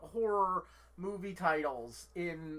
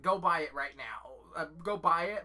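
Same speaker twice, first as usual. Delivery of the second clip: urging; 2 semitones lower, 4 dB louder than usual. Real, not acted. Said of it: "urging viewers to buy".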